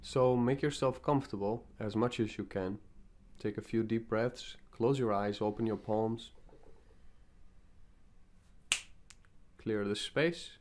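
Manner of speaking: calm invocation with long pauses between phrases; guided meditation. Acted. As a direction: lead them gently into the meditation, phrase by phrase.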